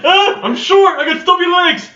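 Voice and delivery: squeaky panicked little voice; high squeaky character voice. Retold or imitated. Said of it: "He's like".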